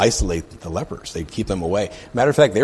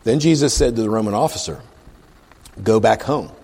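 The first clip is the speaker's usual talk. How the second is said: emphatic read-aloud, key words leaned on; scripture reading; 5 dB louder than usual. Acted. Preacher reads the leper's plea to the congregation, scripture reading. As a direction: read the verse out deliberately.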